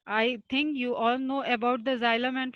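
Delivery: very slow, words spaced out; slow dictating. Shown as a demonstration. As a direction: say it slowly for notes. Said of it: "slow lecture dictation". (धीरे-धीरे बोलना)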